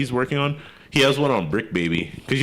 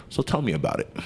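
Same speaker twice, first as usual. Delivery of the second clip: softer, laid-back host impression; calm; 6 dB quieter than usual. Calm interviewer behind the mic inviting a guest to talk, calm. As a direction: ask it softly and calmly. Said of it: "you know he's all calm".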